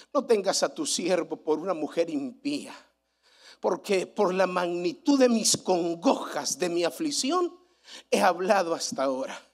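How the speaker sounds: hushed Bible reading voice; scripture reading. Acted. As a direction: read the verse quietly and reverently. Reads Ana's words from scripture.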